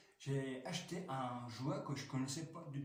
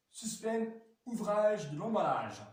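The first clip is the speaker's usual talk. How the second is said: showman announcement; 7 semitones higher, 7 dB louder than usual. Acted. Announcing the unboxing.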